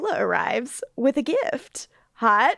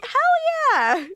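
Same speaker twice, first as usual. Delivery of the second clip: squeaky high excited cheer; enthusiastic. Retold or imitated. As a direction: yell it out with glee, way up high. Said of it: "they're like".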